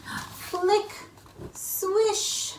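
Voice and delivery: high playful flick and swish; sound effects. Acted. Reader voices the flap for the children. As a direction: voice the flap lifting.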